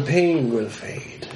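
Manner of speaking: put-on slow, calm old hermit voice; gruff mountain man. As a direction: speak slowly, like a strange old hermit. Hermit Godbone speaks.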